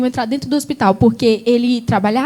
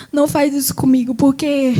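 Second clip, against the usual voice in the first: retold plea, holding back tears; halting father's plea, tears held in; trying not to cry. Father pleading with sick daughter, trying not to cry. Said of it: "tentando não chorar".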